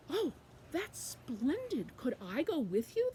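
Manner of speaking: drawn-out, swooping "oh" of delight; delighted river. Acted. River asking to join Quackling, slow delighted gushing. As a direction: gush slowly, then ask eagerly. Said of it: "the river said".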